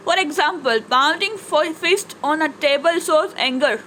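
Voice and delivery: slow, measured textbook reading; reading aloud. Acted. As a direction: read it out slowly for the class. Reads English textbook sentences aloud. (ધીમેથી પાઠ વાંચન)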